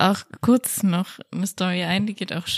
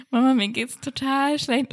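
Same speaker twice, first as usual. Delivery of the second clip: put-on whiny child; 5 semitones higher than usual. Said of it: "und ich meinte".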